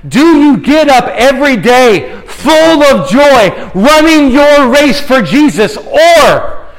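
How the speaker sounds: slow, ringing pulpit questions; fervent, drawn-out preacher's appeal; impassioned preaching challenge. Real, not acted. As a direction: press each question on the congregation, stretching the words.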